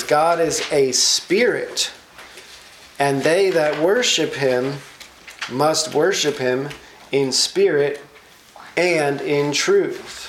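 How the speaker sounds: slow, deliberate scripture read; measured Bible reading voice. Acted. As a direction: read the verse slowly and solemnly. Reads scripture aloud slowly.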